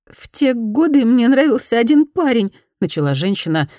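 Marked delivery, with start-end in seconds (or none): none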